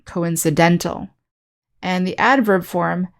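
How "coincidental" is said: "coincidental" stressed on DEN; second-to-last-syllable stress. Shown as a demonstration. Teacher showing the adjective form, stress on DEN in "coincidental". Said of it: "stress on the second to last syllable".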